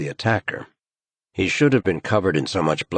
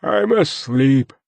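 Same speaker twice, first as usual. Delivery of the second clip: slow, higher, drowsy mumble; weary; 8 semitones higher, 5 dB louder, slower than usual. A narrator's reading. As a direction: sound half asleep and put out. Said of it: "comes the weary response".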